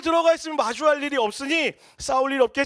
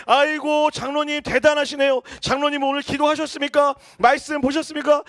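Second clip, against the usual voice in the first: mock-polite, louder sarcasm; sarcastic talk-back; 2 semitones higher, 5 dB louder than usual. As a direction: needle him with fake respect. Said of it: "못 참고 얘기하는 거야". (비꼬는 존댓말로 아버지에게 대드는 아들)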